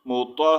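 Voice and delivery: مطہ with the closing h pushed from the chest; careful teacher's مطہ, audible chesty h. Shown as a demonstration. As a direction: breathe out the final h of مطہ. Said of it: "ہا کی آواز سینے سے نکالنی ہے".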